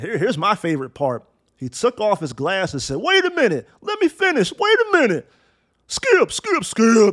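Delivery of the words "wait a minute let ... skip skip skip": loud, boisterous, very high interrupting outburst. Retelling how Shannon took off his glasses and spoke: imitating Shannon getting loud. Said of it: "got some bass in his voice".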